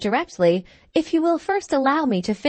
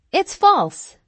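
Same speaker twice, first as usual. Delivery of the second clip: high, loud angry denial; indignant cry; 9 semitones higher, 5 dB louder than usual. A narrator's reading. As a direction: cry out in outrage. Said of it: "cried Missus Glenarm".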